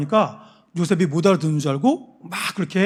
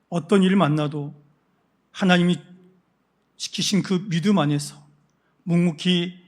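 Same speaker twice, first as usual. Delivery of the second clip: fervent prayer. Real, not acted. Pastor leads the congregation in closing prayer, slow and fervent. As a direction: pray with rising earnest force.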